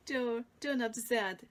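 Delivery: laughing through the words; giggling as she rereads it. Real, not acted. Teacher laughing while reading to the class.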